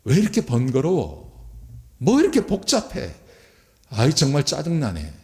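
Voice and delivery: mock-irritated whine, jumping high midway; scornful annoyance. Scoffing priests grumbling over the offering, acted annoyed. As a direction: complain as though it's all too much bother. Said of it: "코웃음을 치면서 제사장들이".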